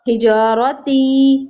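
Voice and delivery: slow हिजारती ending on a short ती; हिजारती without a long ती; short final ती. Shown as a demonstration. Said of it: "ती लंबा नहीं होगा".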